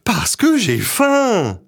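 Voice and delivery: put-on high, fast, breathless child; urgent panting report. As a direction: rattle it off out of breath. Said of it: "Tout essoufflé".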